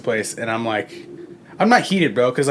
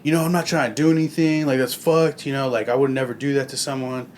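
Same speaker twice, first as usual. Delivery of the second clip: apologetic dealer; 3 semitones higher than usual. Retold or imitated. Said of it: "paragraphs, bro".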